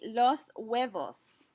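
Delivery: very slow, careful "los huevos"; model pronunciation. Shown as a demonstration. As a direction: draw out "los huevos" for learners. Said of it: "Please repeat".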